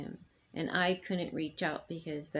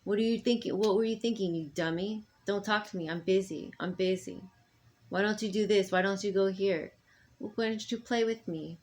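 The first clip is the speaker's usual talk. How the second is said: imitating a harsh mom; 4 dB louder than usual. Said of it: "their own mom".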